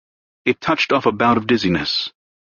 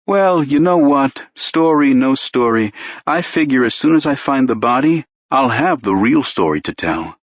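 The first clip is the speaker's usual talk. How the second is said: a hint of a needling cop, rising higher as he pushes; lightly voiced pushy detective; 3 semitones higher than usual. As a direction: coax the confession out, mockingly patient. Renner sure he has him.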